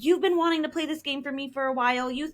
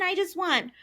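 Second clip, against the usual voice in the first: mock loud gloating; 6 semitones higher than usual. Shown as a demonstration. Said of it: "be really loud about when I just won".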